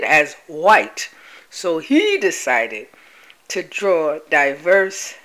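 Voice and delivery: slow, careful dictation pace; slow repeat. Shown as a demonstration. Host repeating the news slowly for viewers, slow and deliberate. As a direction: spell it out word by word for the listeners. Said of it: "I will repeat".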